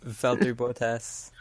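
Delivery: Bottas with long O, "BOH-tass"; American pronunciation. Shown as a demonstration. American keeping to the familiar way, Bottas as boh-tass. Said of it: "I'm just used to saying it".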